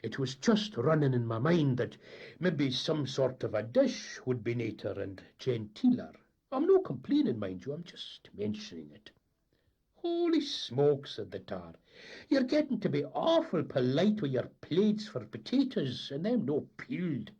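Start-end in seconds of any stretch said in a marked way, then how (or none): 0.0-9.1 a hint of a fussy old captain; lightly voiced Scots skipper. 10.0-11.1 high, loud and slow exclamation; mock astonishment. Tar's exclamation. 12.3-17.3 high, loud, indignant Scots deckhand; gruff Scots sailor. Acted. The tar's voice.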